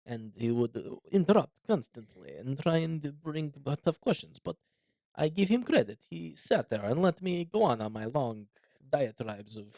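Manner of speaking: lightly voiced Putin with a hint of Russian accent; rising, playful Putin impression with a faint Russian accent; mock Putin. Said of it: "my worst Russian accent".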